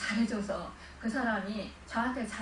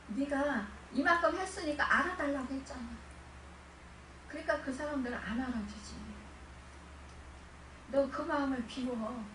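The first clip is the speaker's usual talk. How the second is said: voicing the Lord. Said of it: "주님이 뭐라 하는지 알아요?".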